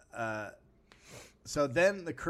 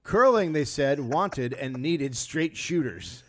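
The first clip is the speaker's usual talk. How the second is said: dramatic announcer; 3 semitones higher, 9 dB louder, much slower than usual. Acted. Dramatic reading of curling history.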